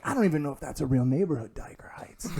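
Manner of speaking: fast whispered scoffing; whispered doubt. Retold or imitated. Gym guy doubting the neighborhood, whispering. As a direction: scoff under the breath. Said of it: "whispering to each other".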